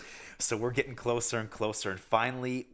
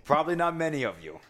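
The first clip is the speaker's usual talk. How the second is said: playful bragging, a bit louder and higher; mock boast; 4 semitones higher, 4 dB louder than usual. Bragging to the audience about bonnet heads, mock pride. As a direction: hype up a silly catch to the viewers.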